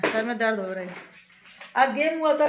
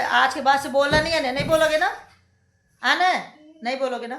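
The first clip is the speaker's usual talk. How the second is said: stern questioning; 3 semitones higher, 5 dB louder than usual. Real, not acted. Sternly making child promise.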